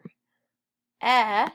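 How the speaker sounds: E as short loud eh, pause, K as a bare click; sounded out. Shown as a demonstration. Teacher sounding out wreck while writing, separate sounds. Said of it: "Our next word is wreck".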